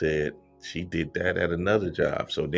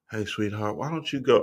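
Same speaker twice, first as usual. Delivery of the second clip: calm speaking, higher; 4 semitones higher than usual. Imitating a manager sending a stressed worker home: imitating someone speaking calmly. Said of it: "she probably said it calmly and everything".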